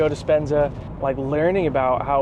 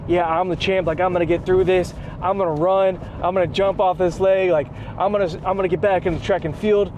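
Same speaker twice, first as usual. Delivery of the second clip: excited; 3 semitones higher than usual. Retold or imitated. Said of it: "now he's getting excited".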